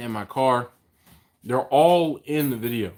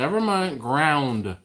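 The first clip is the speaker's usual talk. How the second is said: talking through a mouthful; mouth full; much slower than usual. Real, not acted. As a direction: say it round a bite of pancake. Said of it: "I have pancake in my mouth".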